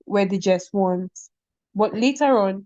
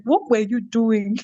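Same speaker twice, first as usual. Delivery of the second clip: cringing at self; slower than usual. Retold or imitated. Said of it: "I remember and I cringe".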